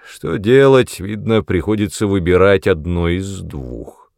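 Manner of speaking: mock-cheerful menace; eerie false cheer. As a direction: grin through the threat. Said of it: "с жутким подобием весёлости". (зловещая весёлость)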